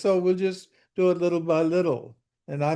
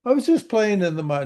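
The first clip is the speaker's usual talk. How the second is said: quick, higher mocking repeat; mocking echo; 5 semitones higher, faster than usual. Teacher mocking his student's lame excuse, quick and higher. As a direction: toss his excuse back at him, teasing.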